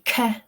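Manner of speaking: "k" as a single hard stop; phonics-style "k" on its own; hard k sound. Shown as a demonstration. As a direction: demonstrate "k" as a sound, not a letter name. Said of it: "that is pronounced k".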